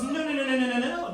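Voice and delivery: imitated heckler objecting loudly; emphatic objection. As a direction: cut in with a string of protests. Acted objection from audience member.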